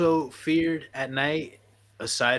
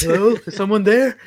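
higher, louder mock call into the dark; playful calling out; 6 semitones higher, 7 dB louder than usual. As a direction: call out as if checking an empty haunted hotel, hammed-up. Playful acted call into haunted scene.

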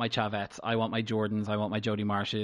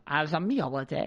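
defensive Kerry Katona; 5 semitones higher than usual. Retold or imitated. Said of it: "she got all defensive at them".

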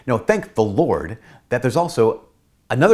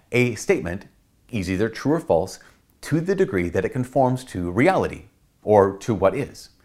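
A statement... is either true or false, with pauses between phrases; slower, measured repeat. Shown as a demonstration. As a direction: spell it out phrase by phrase. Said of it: "Let me say that again".

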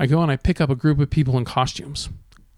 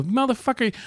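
retold exclamation; 9 semitones higher than usual. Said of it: "I go".

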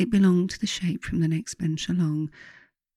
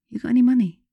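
high, loud Scottish question; Scottish girl asking boldly; 8 semitones higher, 7 dB louder, much faster than usual. Acted. Homeless Scottish girl asking narrator for money, high Scottish blurt. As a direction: pitch it up in broad Scottish, blunt. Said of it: "in a broad Scottish accent".

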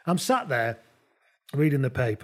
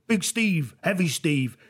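lightly voiced matey skateboarder, higher; Hugo; 6 semitones higher, slower than usual. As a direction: hail a mate in a higher voice, ending in whoops. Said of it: "It's Hugo".

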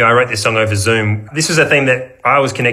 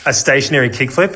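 laughing; 4 semitones higher than usual. Retold or imitated. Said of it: "I think they were like".

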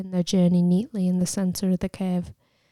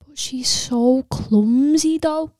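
slow, higher whispered worry; anxious whisper; 6 semitones higher, 4 dB louder, slower than usual. A narrator's reading. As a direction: whisper the doubt.

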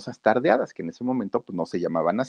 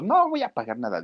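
put-on defiant old woman refusing, raised pitch; angry grandma; 8 semitones higher than usual. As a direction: snap back like a stubborn granny. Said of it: "pero bien enojada". (abuelita enojada y desafiante)

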